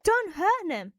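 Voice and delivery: loud, high desperate shout; yelling. Acted. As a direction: shout to stop them. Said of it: "I yelled".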